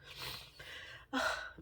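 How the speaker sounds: long shaky sigh through tears; tearful sigh. Real, not acted. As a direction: sigh while fighting tears. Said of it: "Let me stop the waterworks".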